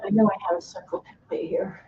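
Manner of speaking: fast whisper to herself. Real, not acted. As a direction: mutter it under your breath, quickly. Searching for a template, to herself.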